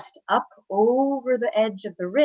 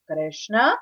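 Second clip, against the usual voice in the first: mildly stern rising name call; stern questioning; 3 semitones higher than usual. Acted. Mother with hands on hips, mildly stern. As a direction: demand an answer with just the name. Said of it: "very sternly".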